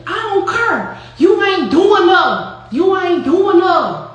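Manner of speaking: high, slow, loud St. Louis voice of an angry friend; Saint Louis accent. Retold or imitated. Imitating Noonie's Saint Louis accent yelling at Flo. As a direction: lean into the Saint Louis drawl, furious. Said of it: "I'm doing her accent".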